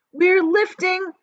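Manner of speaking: slow, loud, high cry; excited high shout. Acted. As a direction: cry out in hope. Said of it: "somebody shouted".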